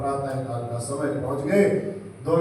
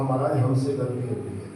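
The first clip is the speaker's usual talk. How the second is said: lovingly; 3 semitones lower, 4 dB quieter than usual. Acted. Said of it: "बड़े प्यार से बोला".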